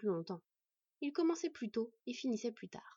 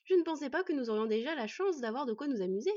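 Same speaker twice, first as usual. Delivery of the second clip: higher, louder delight; gleeful; 4 semitones higher, 5 dB louder than usual. Acted. Teen delighted at a coming fight, gleeful. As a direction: relish it gleefully. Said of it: "se réjouit l'adolescent".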